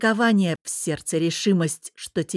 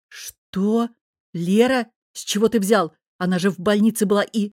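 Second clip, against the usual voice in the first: tumbling out in shock; man hearing his wife is pregnant, stunned; stunned disbelief; 3 semitones higher, 4 dB louder than usual. Acted. Stunned by news.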